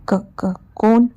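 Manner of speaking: scared stiff, the word won't come out; frightened stammer. Acted. Terrified man stammers in dark. (घाबरून अडखळत विचारलेलं कोण)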